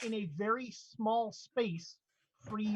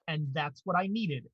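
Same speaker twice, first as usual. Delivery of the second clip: lower, satisfied artifact voice; headdress voice; 5 semitones lower than usual. Acted. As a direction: purr it like a pleased ancient relic. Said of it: "the headdress says".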